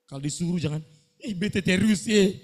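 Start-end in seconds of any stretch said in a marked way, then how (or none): 1.2-2.3 mock whiny student. Mocking a student's whining.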